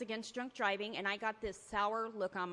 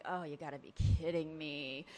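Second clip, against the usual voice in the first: exasperated groan; 5 semitones lower than usual. Retold or imitated. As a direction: groan it out in disbelief. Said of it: "And I was like".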